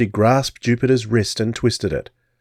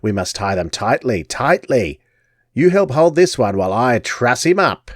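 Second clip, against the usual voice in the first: gypsy crone. Acted. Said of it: "the gypsy crooned".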